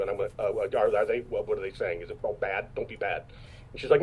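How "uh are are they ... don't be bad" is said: lower, softer, hesitant questions; timid worry. Retold or imitated. Actor asks his wife what people are saying, soft timid voice. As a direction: shrink into a small, mumbled plea.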